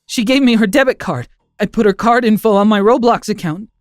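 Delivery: sobbing. Acted. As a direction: confess it half-sobbing, voice pushed up. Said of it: "I sobbed".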